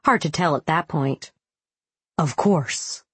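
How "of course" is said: smooth. Acted. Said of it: "Grimshaw said smoothly".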